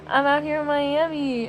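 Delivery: bored, flat-toned lyric imitation; uninterested drawl. Imitating the rapper's line, mildly bored delivery. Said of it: "she just sounds so uninterested".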